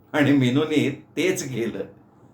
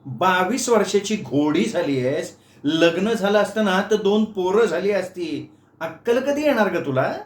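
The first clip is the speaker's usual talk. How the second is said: scolding aunt; 5 semitones higher than usual. Acted. Aunt scolds clumsy Meenu after the collision, higher scolding voice. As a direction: scold her like a cross aunt. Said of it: "करवा देऊन म्हणाल्या".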